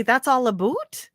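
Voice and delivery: mock Canadian "a boot", rising; Canadian "boot" with a rising question; imitating Canadian accent. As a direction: play up the Canadian oo. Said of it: "you would say".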